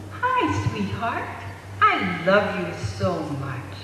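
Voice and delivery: put-on gently cooing mother to baby, lilting questions; sweet parentese. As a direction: talk sweetly to a newborn. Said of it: "you talk to it so sweetly".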